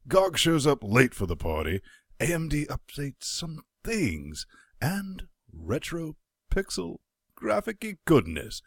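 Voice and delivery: lively announcer intro with swooping pitch; podcast intro read, pitch leaping on key words; show-opening host. Acted. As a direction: kick off the show with playful hype.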